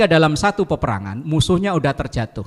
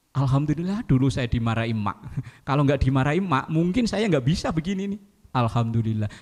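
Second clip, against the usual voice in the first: grateful; 5 dB quieter than usual. Pretend. Grown child thankful for mother.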